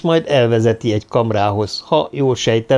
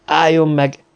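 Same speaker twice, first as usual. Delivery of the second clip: higher, louder drill order; commanding halt; 5 semitones higher, 3 dB louder, slower than usual. A narrator's reading. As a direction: bark it like a drill sergeant. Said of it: "vezényelt Mona Winter".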